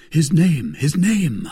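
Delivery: impatient exclamation; crying out. A narrator's reading. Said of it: "cried D'Artagnan".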